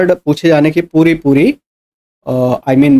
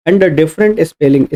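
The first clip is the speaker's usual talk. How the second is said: slow dictation; much slower than usual. Shown as a demonstration. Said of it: "slow dictation of key phrase".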